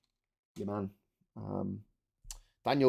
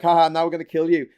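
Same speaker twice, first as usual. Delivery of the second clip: lightly hammed-up gloating alien, louder and quicker; mock villain; 4 semitones higher, 8 dB louder, faster than usual. Alien gloats at the Doctor, mock villainous. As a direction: crow it like a cartoon baddie. Mimics aliens revealing their plan.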